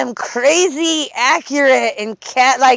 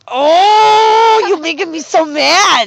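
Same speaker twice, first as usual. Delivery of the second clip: mock angry; 7 semitones higher, 6 dB louder, much slower than usual. Acting mad for movie.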